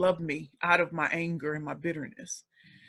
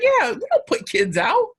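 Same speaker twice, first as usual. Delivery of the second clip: put-on high, loud grandmother setting a child straight; raised-voice motherly telling-off; imitated grandmother; 11 semitones higher, 7 dB louder than usual. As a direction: act out an insistent grandmother, pitched way up. Grandmother's reply, acted out.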